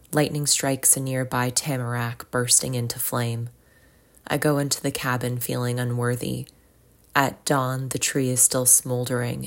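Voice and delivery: measured poetry reading with pauses between lines; poem reading. Acted. Podcast host reads a nature poem to listeners, measured recitation. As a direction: read each line evenly, letting it settle.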